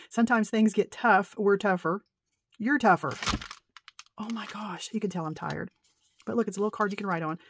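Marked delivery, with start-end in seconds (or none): 0.1-3.1 louder reread. Real, not acted. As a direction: read the card louder, proudly. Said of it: "Look, I can't even read".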